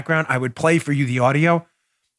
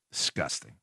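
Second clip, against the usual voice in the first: a low, soft, falling final word; quiet disgust; 11 semitones lower, 13 dB quieter than usual. Real, not acted. Host's last word on the looters, low and soft. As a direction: spit out one last word of contempt, low.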